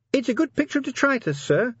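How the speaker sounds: very high, nervous little voice; nervous sergeant. A narrator's reading. Sergeant remarks on the newspaper picture to the commander, nervous. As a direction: pipe up nervously to your boss. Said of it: "said Sergeant Littlebottom nervously".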